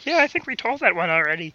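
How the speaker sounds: mocking froggy impression; the speaker as Kermit. Teasing the friend who forgets jokes, in a Kermit voice. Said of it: "Why does Andy sound like Kermit the Frog".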